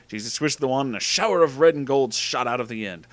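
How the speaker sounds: ordinary delivery, nothing marked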